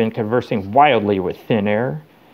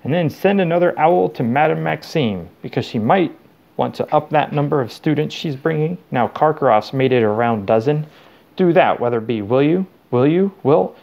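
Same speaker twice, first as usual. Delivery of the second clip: slightly raised voice handing out office orders; lightly voiced officious official; 3 semitones higher than usual. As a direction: dictate errands to an assistant, faintly insistent by the end. Muttering official orders to imagined assistant.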